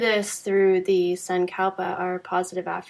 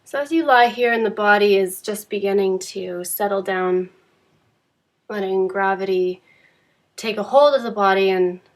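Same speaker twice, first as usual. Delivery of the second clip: calm, unhurried Yoga Nidra guidance with long pauses; measured meditation teacher voice, phrase by phrase; guided meditation. Acted. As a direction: guide a resting listener gently, leaving space between phrases.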